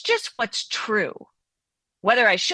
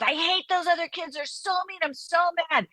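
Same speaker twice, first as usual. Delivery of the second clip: lightly voiced upset kid, pitched higher; a hint of a whiny child complaining; upset young child; 8 semitones higher than usual. Child running to parent, mildly voiced upset kid.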